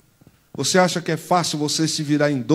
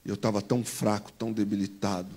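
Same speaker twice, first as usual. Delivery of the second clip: quiet; 6 semitones lower, 8 dB quieter than usual. Real, not acted. Drops to quiet testimony.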